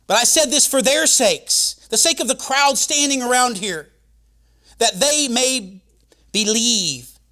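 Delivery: loud, high preacher's cry; preaching at full force. Acted. Preacher proclaiming to the congregation, full force. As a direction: proclaim it over the crowd.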